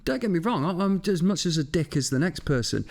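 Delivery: high, laughing self-mockery; laughing while talking. Real, not acted. Cracking up at himself, admitting he can be a dick too.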